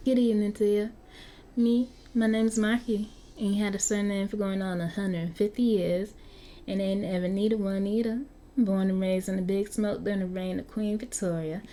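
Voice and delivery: put-on vampire Marky with a light Southern US accent. Game master as Marky introducing himself to the player in a Southern accent. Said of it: "the whole Southern accent".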